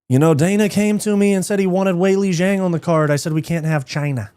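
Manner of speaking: a hint of Conor's Irish swagger; lightly voiced Irish fighter; Conor impression. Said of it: "my Conor impression".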